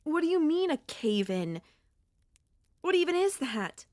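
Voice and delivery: shocked, demanding what happened; rising alarmed questions; alarmed disbelief. Acted. Finding the cave blocked.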